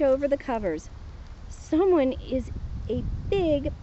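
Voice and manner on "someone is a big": yelled. Acted. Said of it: "he yelled".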